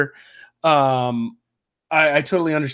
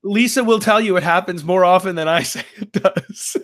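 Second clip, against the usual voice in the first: laughing; 4 semitones higher than usual. Real, not acted. Joking about his wife.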